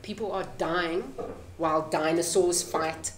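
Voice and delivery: ordinary talk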